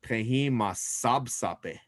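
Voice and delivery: Prehi ma sabsape said slowly and clearly; teacher models Prehi ma sabsape slowly for the class; slow model phrase. Shown as a demonstration. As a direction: spell it out slowly for the students. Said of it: "I'm gonna say that my hair is black".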